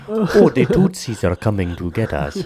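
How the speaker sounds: mock African accent; bad African accent. Mocking an actor's bad African accent. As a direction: do a clumsy movie African accent. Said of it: "your accent is terrible".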